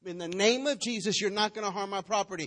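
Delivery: firm, loud commanding prayer; purposeful loud prayer. Retold or imitated. Preacher showing her prayer at the hail, loud and firm. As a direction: command the storm with authority. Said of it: "There was purpose behind my prayer".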